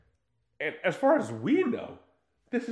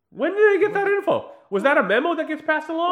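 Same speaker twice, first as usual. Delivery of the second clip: much higher, louder disbelief; incredulous; 12 semitones higher, 6 dB louder than usual. Real, not acted. Host baffled the waiter knows Bond's drink, incredulous. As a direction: throw the question up in disbelief.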